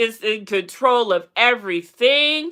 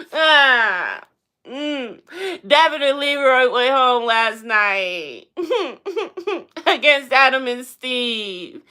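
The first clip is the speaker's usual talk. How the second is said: laughing; 2 semitones higher, slower than usual. Real, not acted. Laughing at elimination.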